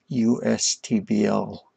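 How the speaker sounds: U S T B L slowly, letter by letter; spelled out. Real, not acted. Streamer puzzling over a name, spelling it out. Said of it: "How am I supposed to pronounce that".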